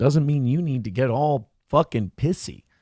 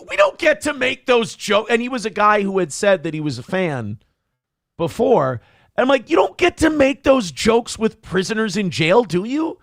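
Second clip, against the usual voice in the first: retold scolding; 5 semitones higher than usual.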